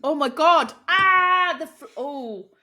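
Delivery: loud, high rapturous gasp; awed sigh. Real, not acted. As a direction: overcome by the taste. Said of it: "the way the flavs come together".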